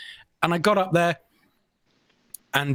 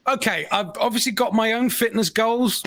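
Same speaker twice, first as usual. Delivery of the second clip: raised pitch, projecting to a hall; big booming voice; 5 semitones higher than usual. Retold or imitated. Asking from the back of a massive sports hall, mock booming voice. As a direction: project as if without a microphone. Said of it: "my big booming voice on".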